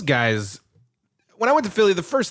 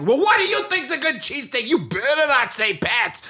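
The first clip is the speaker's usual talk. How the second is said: mock threatening local; 12 semitones higher than usual. Philly guy warning the tourist, mock menacing. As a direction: warn him like a local tough. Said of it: "And he's just like".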